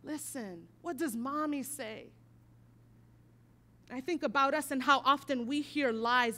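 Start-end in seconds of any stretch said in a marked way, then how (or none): 0.0-2.1 much softer, gentle coaxing question; soft tender mom. Retold or imitated. Mother softly coaxing her son, quiet and tender. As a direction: hush it down like comforting a child. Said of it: "and I'm like".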